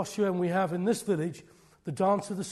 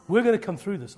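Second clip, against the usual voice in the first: faith declared louder; louder faith declaration; 2 semitones higher, 6 dB louder than usual. Real, not acted. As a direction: proclaim it to the room with force. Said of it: "I'm preaching faith into you".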